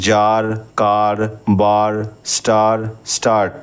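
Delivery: জার and কার said slowly with a long আ; slow vowel demo. Shown as a demonstration. Teacher showing the আ sound, slow clear demo. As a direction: draw out the আ in জার, কার, বার. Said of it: "এর উচ্চারণ আয়ের মতো হচ্ছে".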